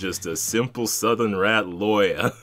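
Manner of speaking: slow, mock-serious Southern drawl; Southern rat lawyer. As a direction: play a dignified Southern rat lawyer, slowly. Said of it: "kind of voice".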